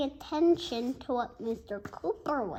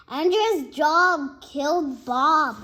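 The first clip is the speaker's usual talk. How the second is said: loud, higher shout of blame; 4 semitones higher, 10 dB louder than usual. Acted. AJ shouting the news at the class, loud and high. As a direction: yell the accusation. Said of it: "A J shouted".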